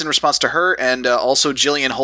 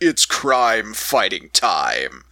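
very slow, cavernously deep voice; 4 semitones lower than usual. Recalling a TV show with friends, imitating the main guy's deep voice. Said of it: "the really deep voice".

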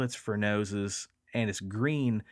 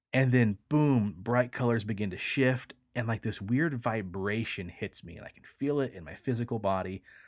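ordinary delivery

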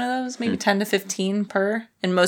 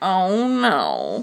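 put-on nasal character voice; 3 dB louder than usual. Describing the character voices they use, the speaker does Arnold's nasal voice. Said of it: "He's so nasally".

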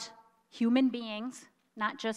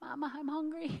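small, squeaky, high, soft voice; 6 semitones higher, 9 dB quieter than usual. Describing being woken at night, the speaker voices the baby in a squeaky little voice. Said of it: "that little squeaky voice comes".

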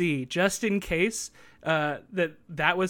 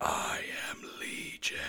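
eerie, faint, barely-there scary whisper. Retelling a voice heard in the background while practicing lines, faint and scary. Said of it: "faint, scary voice go".

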